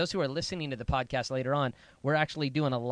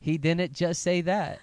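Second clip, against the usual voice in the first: mock sassy copy; 3 semitones higher, 4 dB louder, slower than usual. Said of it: "that's a strange thing that you just did".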